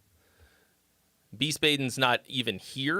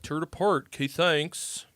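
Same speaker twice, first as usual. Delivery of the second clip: put-on Austrian accent; 2 semitones higher, slower than usual. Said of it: "You like my Austrian accent?".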